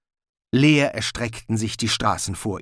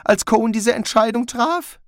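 higher, anxious question; Rincewind, wary; 10 semitones higher, 3 dB louder than usual. A narrator's reading. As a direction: ask it with growing dread. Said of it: "fragte Rincewind".

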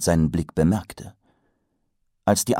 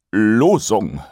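a bit louder; 3 semitones higher, 6 dB louder than usual. A narrator's reading. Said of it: "Und dann etwas lauter".

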